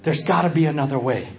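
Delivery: a hint of a relieved villager; lightly voiced relief and plea; relieved hearer. Listeners freed from the law, lightly voiced relief. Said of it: "the ones who knew".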